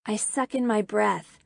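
usual speaking voice

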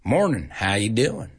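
Southern drawl with stretched vowels. Shown as a demonstration. Teacher showing listeners how the South talks, Southern drawl. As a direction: drag out "Morning, how you doing?" like a Southerner. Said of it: "what we call a drawl".

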